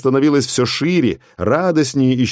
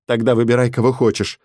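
strangled voice. Acted. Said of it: "сдавленный голос".

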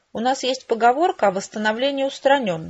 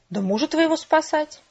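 higher-pitched exclaiming; exclamation; 7 semitones higher than usual. A narrator's reading. Father announcing a rescue of her husband, exclaiming. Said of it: "воскликнул он".

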